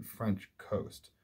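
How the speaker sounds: "French coast" as two equally heavy beats; slow down and weight both "French" and "coast"; two stressed syllables. Shown as a demonstration. Teacher showing a spondee in the line, both words stressed. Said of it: "two stressed syllables".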